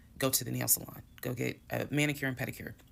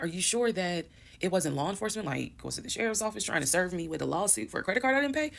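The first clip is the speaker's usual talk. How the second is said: higher-pitched, puzzled retold questions; puzzled questioning; 6 semitones higher than usual. Wife questioning husband about the visitor, puzzled and doubtful. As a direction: run through possibilities, voice lifted in doubt.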